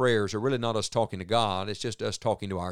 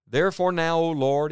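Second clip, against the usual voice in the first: raised, louder whiny complaint; petulant child; 6 semitones higher, 5 dB louder than usual. Retold or imitated. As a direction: sulk like a child denied his way. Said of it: "Jonah speaking like a petulant child".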